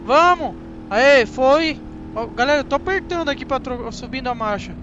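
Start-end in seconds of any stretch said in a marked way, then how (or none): 0.1-1.8 loud burst of cheering at the screen; root for the car as it finally shifts; excited cheer. Real, not acted. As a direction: gamer hyping up his race, then a loud excited cheer.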